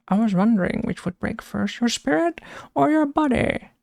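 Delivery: a casual first go at the Bane quote; lightly voiced Bane. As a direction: mostly own voice, jumping high on the last words. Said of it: "He has some good quotes".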